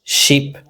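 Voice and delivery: "sheep" with a long, tense ee; long vowel. Shown as a demonstration. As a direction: hold the ee in "sheep", as against "ship". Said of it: "clear vowel contrasts".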